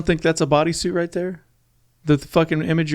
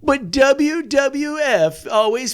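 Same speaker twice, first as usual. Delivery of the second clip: slow, laughing list-video narration; clickbait video narrator; 5 semitones higher than usual. Acted. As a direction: hype the stats like a top ten video. Mock narrator bit.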